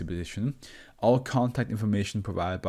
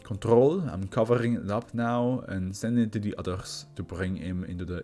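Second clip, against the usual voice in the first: formal doctor character. Acted. Doctor closes the session.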